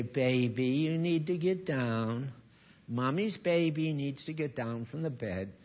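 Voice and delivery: slow, coaxing pet voice, only lightly done; gentle mommy voice to the dog; mock sweet baby talk. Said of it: "You say".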